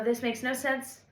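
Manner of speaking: half-shouted "This makes no sense."; mock frustrated yell. To her own lyrics, mildly yelled in frustration. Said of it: "I look at this and I go".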